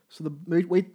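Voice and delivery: ordinary delivery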